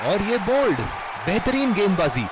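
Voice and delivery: loud call of the wicket; excited commentary. Acted. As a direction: burst out on the bowled. Calling a wicket live.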